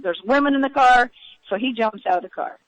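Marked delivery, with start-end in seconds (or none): 0.0-1.1 imitating a man yelling, raised pitch and volume; retold yell. Passenger retells man yelling at pursuers, mock yell. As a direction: call it out as a retold warning. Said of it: "he's yelling at him".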